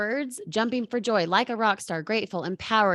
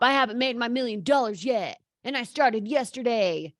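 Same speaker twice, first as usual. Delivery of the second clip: mocking excuses. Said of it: "in your head being like".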